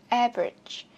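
"Average" with a strong AV; weight on the opening of "Average", tail dropping; careful front-stressed "Average"; stress on first syllable. Shown as a demonstration. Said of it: "Chữ âm một".

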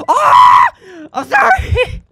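high pitched mock cry of sorry; mock apologetic wail. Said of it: "Jack is, like, telling you".

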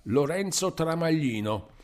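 high-pitched call of the full name. A narrator's reading. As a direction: call him by name to wake him up. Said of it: "una voce che da piè del letto gridava".

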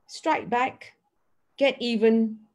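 a mild imitation of someone urging revenge; lightly voiced, pushing the listener to hit back. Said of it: "that may be saying to you".

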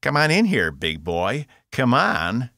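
high, loud goading shout; a brash yell daring the guard to come in; taunting yell. A narrator's reading. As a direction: egg him on to fight. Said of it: "Box yelled".

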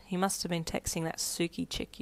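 softly voiced private thought; inner thought. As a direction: think it to yourself, softly. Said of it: "you thought".

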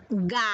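"Ga-yo" said in two separate, stressed beats; syllable by syllable. Shown as a demonstration. Teacher leads the children in saying "Ga-yo" syllable by syllable. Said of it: "A ver, vamos juntos".

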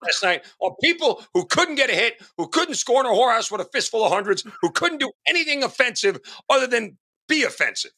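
real morning frustration boiling over; upset rant. Real, not acted. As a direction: vent about the hitless teams. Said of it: "you're very upset this morning".

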